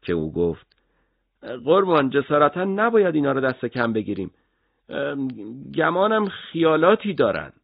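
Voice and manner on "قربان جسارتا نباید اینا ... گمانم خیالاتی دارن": a touch of worry, raised and careful; hesitant warning to the boss; worried. A narrator's reading. Subordinate cautiously warning his superior, mildly worried.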